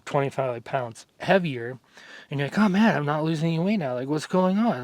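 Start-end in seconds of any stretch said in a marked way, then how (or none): 2.6-4.8 higher, quicker, lightly acted fretting; mock freak-out. Dieter stalled on weight loss, mock freaking out. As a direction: play a mildly panicked dieter. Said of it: "you're freaking out".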